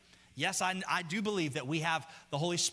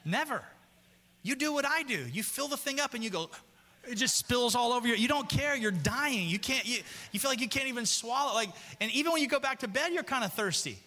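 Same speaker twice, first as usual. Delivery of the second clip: animated riff; 5 semitones higher than usual. Acted. Comic relatable riff, higher.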